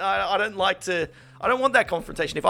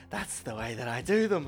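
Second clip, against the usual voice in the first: lower, softer dismissive reply; soft, low defensive retort; curt waitress; 3 semitones lower, 7 dB quieter than usual. Retold or imitated. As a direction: imitate her brushing it off. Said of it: "she's like".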